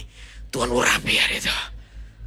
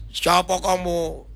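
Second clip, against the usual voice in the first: long, slow haunting drone; possessed person's challenge; 3 semitones higher, much slower than usual. Retold or imitated. Possessed person questions the pastor, slow eerie demon voice. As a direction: drag it out like a mock demon. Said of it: "dia, dia tanya".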